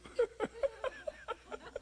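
high giddy laugh of joy; delighted laugh. Real, not acted. Preacher laughs with joy over his life.

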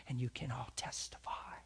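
soft whispered close; hushed. Retold or imitated. Retelling his quiet words to the coworkers. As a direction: whisper the challenge. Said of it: "I probably said something like".

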